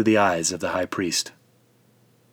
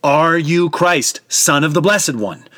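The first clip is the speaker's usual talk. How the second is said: slow insistent question; 7 semitones higher, 6 dB louder, slower than usual. A narrator's reading. High priest repeating question.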